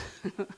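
brief, soft re-enacted laugh; retold chuckle. Counselor amused by the client's list of lies, soft chuckle. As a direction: let out a quiet little chuckle. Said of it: "and I start laughing".

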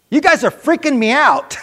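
waitress spooked by the healing, high and loud; retold amazement. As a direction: let the disbelief burst out. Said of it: "She goes".

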